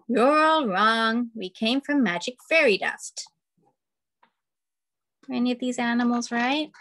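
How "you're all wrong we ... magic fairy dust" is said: insistent animal. Acted.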